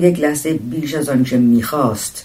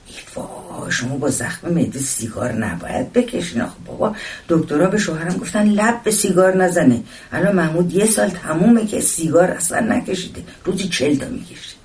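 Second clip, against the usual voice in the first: lightly voiced chiding, breathy gasp into livelier talk; fussing woman passenger; 4 semitones higher than usual. Woman warning a stranger off smoking, lightly voiced and fussing. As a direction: lightly scold like a meddling fellow passenger.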